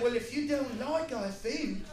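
imitating a rude waiter; a waiter snapping at an American tourist; mock English waiter. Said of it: "the waiter was like".

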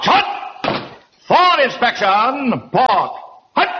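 parade ground bark, for inspection drawn out slowly; drill commands. Acted. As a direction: bark the drill orders at the squad. Drill sergeant calling commands.

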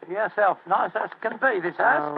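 lightly put-on Cockney; mild, chummy Cockney; Cockney accent. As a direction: agree as a Cockney sidekick. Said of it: "My Cockney accent".

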